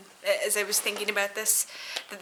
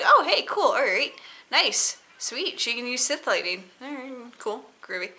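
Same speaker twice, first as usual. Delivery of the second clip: excited; 4 semitones higher, 4 dB louder than usual. Retold or imitated. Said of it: "and I was like".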